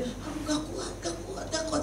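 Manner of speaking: high, soft helpless complaint; mock whimpering. Overloaded minister saying she cannot cope, soft high whimper. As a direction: act out giving up feebly. Acted complaint of being overwhelmed.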